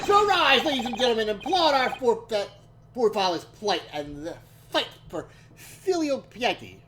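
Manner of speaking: lofty proclaiming speech voice; grand oration, mock formal. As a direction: declaim it like a pompous orator. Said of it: "was this".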